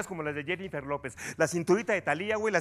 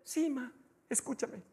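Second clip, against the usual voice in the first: stern parent voice; 7 semitones higher, 10 dB quieter than usual. Acted. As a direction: warn with tightly held-back anger. Parent sternly lectures before exploding.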